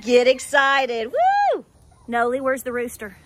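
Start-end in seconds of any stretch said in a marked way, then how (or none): 0.0-1.1 louder hype. Real, not acted. 1.1-1.6 high, loud playful whoop; cheer. Real, not acted. Hyping viewers for hoof trimming, high playful whoop.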